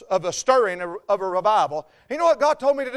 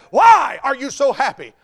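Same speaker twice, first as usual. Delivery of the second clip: puzzled questioner; 4 semitones higher, 6 dB louder than usual. Acted. Acts out people questioning his happiness.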